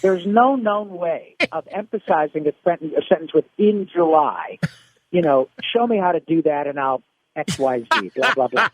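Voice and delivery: a hint of Orson Welles grumbling; lightly voiced gruff star refusing a note; grumbling back at the director; mock grumpy Orson. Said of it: "And he says".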